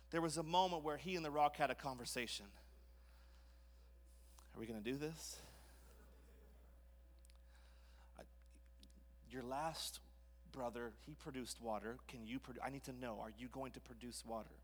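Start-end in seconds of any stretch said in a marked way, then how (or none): 4.5-14.6 low, soft, halting worry; understated panic under the breath; quietly panicking. Acted. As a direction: fret aloud with pauses, keeping it hushed. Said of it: "I just see him kind of panicking".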